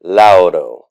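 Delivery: deliberate, loud-and-clear Latin word, falling at the end; model for repetition. Shown as a demonstration. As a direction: say it for a class to echo. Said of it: "repeat after me".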